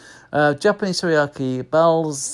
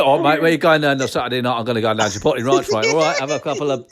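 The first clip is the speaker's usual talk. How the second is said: fast, matey cockney patter; jokey cockney geezer; 3 semitones lower, faster than usual. Acted. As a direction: play a cockney lad planning a night out. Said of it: "That's like a cockney".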